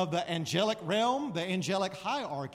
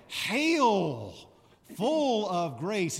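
slow, louder, stately salute; very formal hail; 5 dB louder, much slower than usual. Shown as a demonstration. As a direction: greet her like royalty. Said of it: "It's very formal".

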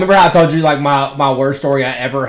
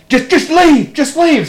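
much higher pitched, pleading imitation of the owner; exasperated owner; 11 semitones higher, 3 dB louder, slower than usual. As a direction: mimic her begging him to go, pitched way up. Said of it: "She goes".

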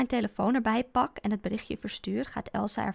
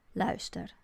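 forced calm; 2 semitones lower, 3 dB quieter than usual. Acted. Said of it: "zegt mijn ex-man gemaakt kalm".

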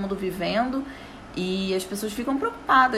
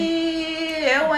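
mock alarm; 7 semitones higher, much slower than usual. Real, not acted.

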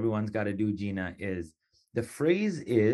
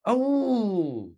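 playful high; 9 semitones higher, much slower than usual. Real, not acted. Playful praise of recitation.

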